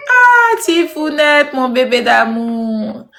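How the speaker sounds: slow drawn-out fond greeting; tender greeting. Real, not acted. Greeting a viewer named Tifounette, slow and fond. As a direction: stretch it out like cooing to a darling.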